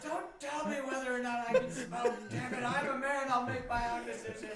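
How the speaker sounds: loud, high mock tough guy; hammed-up manly defiance; macho bluster. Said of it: "And you're outside like".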